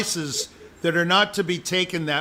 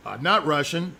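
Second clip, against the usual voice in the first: defensive denial; 2 semitones lower than usual. Shown as a demonstration. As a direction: deny it a little sheepishly. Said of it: "I'm gonna say it again".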